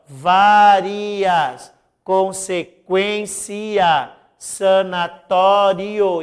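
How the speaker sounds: várias, consequência, sanatório drawn out slowly; slow syllable demo. Shown as a demonstration. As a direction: stretch each word slowly for the class. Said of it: "proparoxítono aparente". (professora soletra devagar várias, consequência, sanatório)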